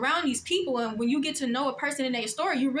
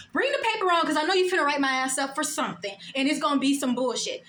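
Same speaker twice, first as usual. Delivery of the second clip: defiant challenge. Retold or imitated. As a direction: throw down the challenge. Defiant thought at the boss.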